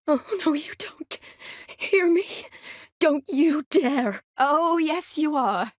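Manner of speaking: high-pitched, drawn-out warning; playful scolding. Acted. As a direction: forbid it in a high, insistent voice. Mock-scolding someone who resists.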